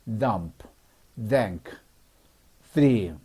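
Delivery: "dump, dank, three" each begun with airy TH; voiceless TH. Shown as a demonstration. Teacher reviewing leaking-air words, voiceless TH. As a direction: blow over the tongue to start "dump", "dank", "three". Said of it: "이렇게 바람 빠지는 소리가".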